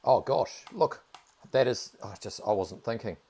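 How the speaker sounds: loud, high burst of real delight; excited. Real, not acted. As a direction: gasp it out, thrilled by the find. Big item drop found.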